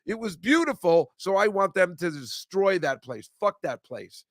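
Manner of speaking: building indignation that drops off at the end; carried-away rant. Real, not acted. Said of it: "Sorry, I got carried away".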